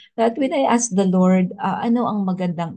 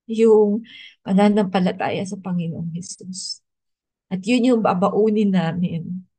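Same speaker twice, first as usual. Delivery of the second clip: after crying; 3 semitones higher than usual. Real, not acted. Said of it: "naiyak ako".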